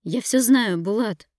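high, loud accusing shout; yelling. Acted. Wife screaming at her husband on the phone, furious. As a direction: scream it at him. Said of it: "заорала я".

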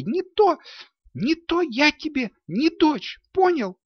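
put-on high girl's voice, fierce ultimatum to her father; дерзкая дочь ставит отцу ультиматум; defiant girl. A narrator's reading. Daughter defies her robber father.

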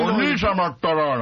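slow, lightly voiced spoiled girl; a hint of a pampered sister, drawn out; Eliza voice. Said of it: "イライザの声もこの人です".

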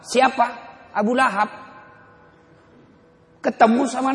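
high, loud, rising preacher's cry; fiery preaching. Acted. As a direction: preach it hard to the crowd. Preaching at full force. (khotbah berapi-api, tinggi dan lantang)

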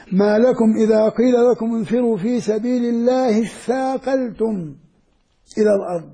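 measured tajweed chant of the verse; Quran recitation. Shown as a demonstration. Teacher recites verse to students, measured tajweed chant. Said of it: "لما يقرأها القارئ تدخل أذنك".

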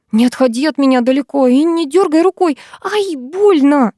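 high-pitched orders breaking into a pained yelp; scolding. A narrator's reading. Girl with caught hair scolding boy, in pain. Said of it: "выругалась я".

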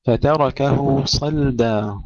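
صلدا with a thin light ل after the ص; صلدا: keep the ل light, not heavy; light lam. Shown as a demonstration. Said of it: "صلدا ترقيق اللام". (ترقيق اللام في صلدا)

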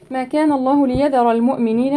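tajweed recitation; Quran recitation. Shown as a demonstration. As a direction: recite it with tajweed, stretching the vowels.

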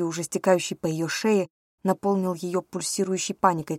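ordinary delivery, nothing marked

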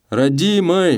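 громко и высоко, насмешливо плаксиво; передразнить его слезливый тон; передразнивая слезливо. A narrator's reading. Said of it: "в тон ему ответил Челкаш". (Челкаш издевательски передразнивает слезливого Гаврилу)

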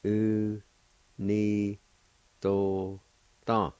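each syllable said apart with a pause. Shown as a demonstration. Teacher sounding out the word for fathers, syllable by syllable. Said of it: "It's pronounced like this".

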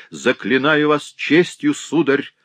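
high, loud imploring; husband begging the stranger to stop; frantic pleading. A narrator's reading. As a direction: beg him desperately. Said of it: "не помня себя".

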